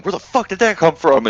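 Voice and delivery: high startled mock shout; mock shock. Exploding enemies wondering where fire came from, mock shock.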